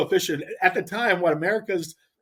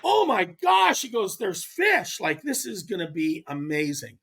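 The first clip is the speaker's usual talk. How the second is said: freaking out; slower than usual. Retold or imitated. Angler imitating his partner on a hot bite, excited freak-out. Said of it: "he's freaking out".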